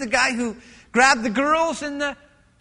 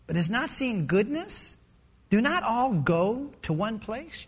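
measured, lower-pitched Bible reading; scripture reading; 4 semitones lower than usual. Acted. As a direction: read the verse solemnly, phrase by phrase. Reads scripture aloud.

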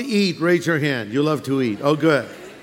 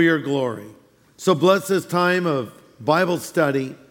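opening prayer; 3 semitones lower than usual. Acted. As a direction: pray it calmly for the congregation. Opening prayer before Bible study.

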